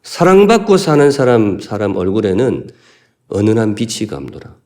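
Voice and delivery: retold sister snapping at her older sister; sharp retort. Younger sister snapping coldly at her sister. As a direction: throw the line like a cutting jab. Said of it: "동생이 언니한테 쏘아붙이는".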